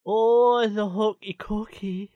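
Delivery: put-on a botched Scottish accent on the hokey cokey; bad Scottish accent. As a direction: try a Scottish accent and miss it. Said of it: "I can't even do a Scottish accent".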